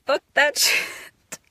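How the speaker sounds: slow whisper breaking into laughter; laughing whisper. Real, not acted. Releasing old pain: laughing whisper. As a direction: let the laugh break through.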